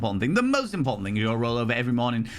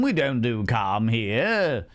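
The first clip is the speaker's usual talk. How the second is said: imitating calm voice; 2 semitones lower, much slower than usual. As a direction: echo the alert in a put-on calm. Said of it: "Said in a very calm and relaxing voice".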